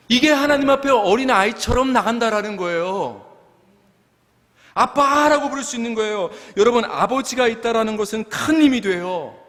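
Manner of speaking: high-pitched emphatic sermon voice; impassioned preaching. Real, not acted. Pastor telling congregation a father is strength, impassioned preaching. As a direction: preach it with rising fervor.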